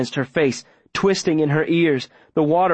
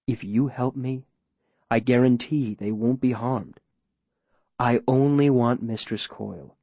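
measured, coaxing man in control; smooth, persuasive mayor. Acted. Mayor pressing Viola for a location, smooth persuasion. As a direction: coax deliberately, slowing for effect.

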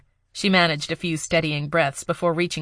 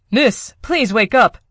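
slow, high, louder begging; 6 semitones higher, 6 dB louder, slower than usual. Acted. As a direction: beg her slowly to wake. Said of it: "Hart begged".

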